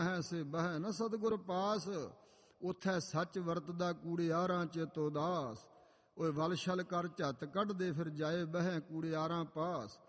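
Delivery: slow, measured verse recital; slow Gurbani quotation in a preacher's delivery; scripture recitation. Acted. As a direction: recite the sacred verse slowly, drawing out the words.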